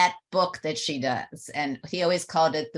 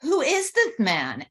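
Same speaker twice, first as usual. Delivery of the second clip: much higher, astonished inner voice; stunned disbelief; 10 semitones higher, 4 dB louder than usual. Retold or imitated. Daughter stunned by her changed father, in disbelief. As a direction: ask it like you can't recognize him. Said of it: "And I'm thinking".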